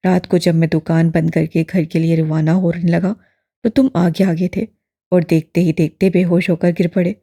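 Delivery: put-on old imam calmly filling him in; steady, balanced old man. A narrator's reading. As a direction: explain it evenly, unhurried. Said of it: "ठहरे से मुतवाज़िन लहजे से".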